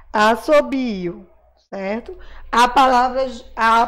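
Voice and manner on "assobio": assobio said slowly as one joined word; whole word, slowly. Shown as a demonstration. Teacher rereads the whole word assobio for the children, slow and joined. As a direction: say assobio smoothly, slowed down. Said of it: "Esse I e esse O".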